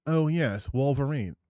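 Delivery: tentative mock British accent; understated put-on British voice. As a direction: try out a British "Oh, yes". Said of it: "if he's, like, British".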